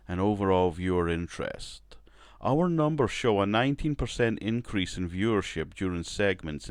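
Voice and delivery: a lightly put-on boardroom voice; poor executive impression. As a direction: play a network suit laying down numbers. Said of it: "that was a poor accent I put on, man, a poor impression".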